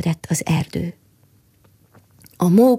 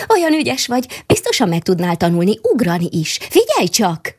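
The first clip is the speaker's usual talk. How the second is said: squirrel calling out; 2 semitones higher than usual. Acted. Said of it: "kiáltotta".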